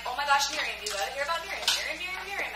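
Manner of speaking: mock-excited, singsong pestering; playful imitation of a nagging enthusiast; gushing friend imitation. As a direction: gush it like an overeager friend, pitch bouncing. Retells friend's pestering calls.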